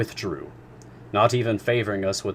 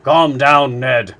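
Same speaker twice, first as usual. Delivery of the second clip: calming; 5 semitones higher, 12 dB louder, much slower than usual. A narrator's reading. Professor soothing angry Ned.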